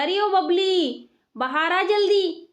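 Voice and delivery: mother-in-law summoning her daughter-in-law; drawn-out shout for Babli to come out; calling out. Acted.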